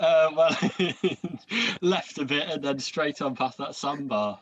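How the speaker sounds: laughing through a hammed-up captain's answer; half-laughing, bluffing old salt; mock sea captain. Captain answering the lost crew, mock nautical with a laugh. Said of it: "That's the official nautical term".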